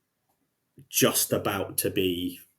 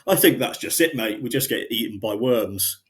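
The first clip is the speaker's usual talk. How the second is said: Henry's blunt goodbye; 2 semitones higher, 3 dB louder than usual. Retold or imitated. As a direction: toss off a bleak line like a shrugging mate. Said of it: "And then he's like".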